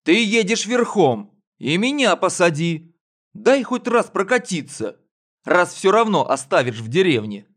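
put-on high pleading child voice; pleading boy. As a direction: beg like a little boy.

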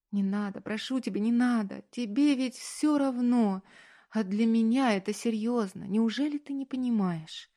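put-on a young woman's tearful outburst; hurt young woman. A narrator's reading. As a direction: voice her climbing toward tears.

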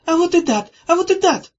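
high, loud playground taunt; shrill sing-song teasing cry; childish shout. A narrator's reading. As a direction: yell it like a squabbling kid. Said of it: "крикнула Зозо".

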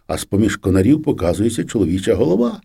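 usual speaking voice

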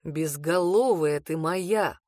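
low, very slow fond chiding; chiding man. Acted. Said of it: "пожурил Аттан".

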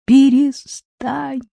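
slow, laughing plea; pleading through laughter. A narrator's reading. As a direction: beg him to stop joking. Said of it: "взмолилась Марина". (взмолиться сквозь смех)

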